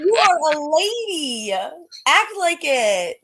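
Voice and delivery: high, loud, slow scolding; a scandalized owner shouting at her cat; mock scolding shout. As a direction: yell at her like a scandalized mother.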